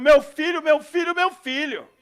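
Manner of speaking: loud, high cries of a frantic mother; desperate shouting. Retold or imitated. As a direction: call out for your son in panic. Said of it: "vem uma mãe desesperada, gritando".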